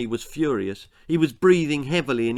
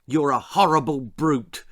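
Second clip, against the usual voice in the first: hollered; 3 dB louder than usual. Acted. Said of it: "she hollowed".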